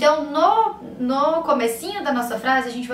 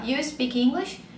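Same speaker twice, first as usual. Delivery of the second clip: "You speak English?" slow, rising on "English"; question by intonation alone; 3 dB quieter, slower than usual. Shown as a demonstration. Teacher acting out asking someone without "do", "English" rising questioningly. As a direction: make "You speak English?" a question purely by lifting the end. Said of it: "Mudar só a entonação".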